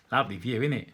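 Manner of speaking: Londoner. Acted.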